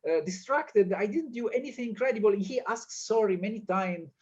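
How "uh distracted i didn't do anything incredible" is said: higher, imitating a bewildered protest; pleading innocence. Will protesting his innocence to the group, higher pleading voice. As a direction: play it as a wronged guy asking what he did. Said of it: "he's saying".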